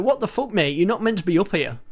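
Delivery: lightly voiced indignant pilot; a hint of an offended bloke; helicopter voice. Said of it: "That helicopter's like".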